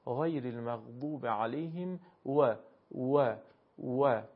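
separate, repeated «و» with an English w sound; Arabic waw. Shown as a demonstration. Teacher drills the letter after the verse, «و» as rounded wa. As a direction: round the lips so «و» comes out as wa.

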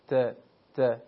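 ت as a short compact syllable, no spread; Arabic ta. Shown as a demonstration. Teacher isolating the Arabic ta for students, compact sound. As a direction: say ت tight and contained, twice. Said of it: "تا میشه".

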